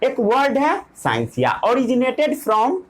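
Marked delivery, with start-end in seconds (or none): 1.6-2.8 each word drawn out slowly for note-taking; slow dictation. Shown as a demonstration. Teacher dictating to students, slow and deliberate. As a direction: spell it out word by word so they can write.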